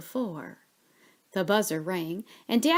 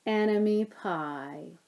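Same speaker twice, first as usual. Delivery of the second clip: satisfied; 3 dB quieter, slower than usual. Acted.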